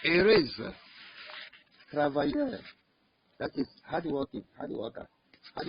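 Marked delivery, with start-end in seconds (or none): 1.9-2.6 travailleur said as a clear French model word. Shown as a demonstration. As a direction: say travailleur slowly for learners to copy. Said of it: "you need to be pronouncing them".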